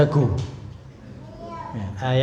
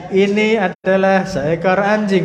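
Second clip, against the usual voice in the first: "ini adalah seekor anjing" pitched higher with a lively moving tune; varied intonation; 5 semitones higher, 4 dB louder than usual. Shown as a demonstration. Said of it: "Intonasinya agak diubah".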